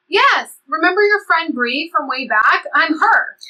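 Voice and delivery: bursting to be recognized; excited blurt. Acted. Bree excitedly telling old Liv who she is, loud and high.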